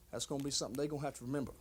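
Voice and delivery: low, quiet grudge-bearing vow; grim warning. Acted. Injured wrestler warning the two fellas who hurt him, grim. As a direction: drop low and quiet for a measured threat. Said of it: "ain't used to hearing me talk like this".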